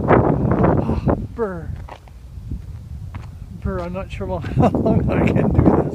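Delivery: shivering from the cold; teeth-chattering brr in freezing wind. Real, not acted.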